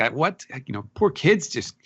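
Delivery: a touch of incredulous protest; incensed. Acted. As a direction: act out mock outrage, pitch jumping up. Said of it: "Luffy is incensed".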